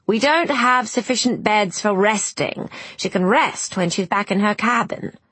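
lightly voiced doctor, dismissive; a touch of impatience from an overstretched doctor; brusque ship's doctor. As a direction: refuse briskly, as a busy doctor would.

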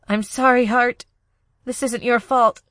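gently forgive him; tender apology. Acted.

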